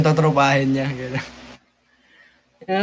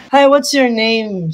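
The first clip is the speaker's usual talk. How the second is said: put-on accented English, pitched up, drawn out; imitating an English speaker's chirpy-high greeting, slowly; mock native-English accent, higher and slow; 5 semitones higher, slower than usual. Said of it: "May accent eh".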